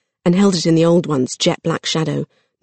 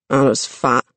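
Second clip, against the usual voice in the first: lower, grumbling troll complaint; troll grumble; 4 semitones lower, slower than usual. Acted. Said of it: "grumbled the troll".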